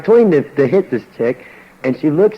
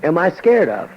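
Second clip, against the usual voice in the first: slow bewildered question; 4 semitones higher, slower than usual. Retold or imitated. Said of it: "I'm standing there saying".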